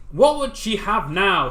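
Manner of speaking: slow, loud, high puffed fish voice; puffed-up pufferfish. Acted. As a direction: puff up like a pufferfish. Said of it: "just from the puffer fish noise".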